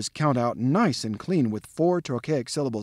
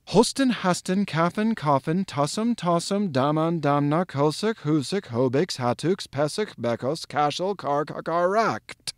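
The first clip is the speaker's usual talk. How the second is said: one-breath recitation; 2 semitones higher than usual. Shown as a demonstration. Lecturer demonstrating the thunder word for listeners, in a single breath. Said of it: "to say in a single breath".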